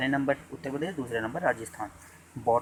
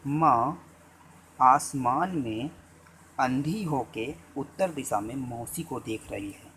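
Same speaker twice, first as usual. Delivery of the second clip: "माँ" and "आसमान में" slow and loud, the rest slow; dictating slowly; 3 dB louder, slower than usual. Shown as a demonstration. Teacher dictating a memory sentence to students, slow. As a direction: spell the mnemonic out slowly for notes. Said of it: "note करिए जल्दी से".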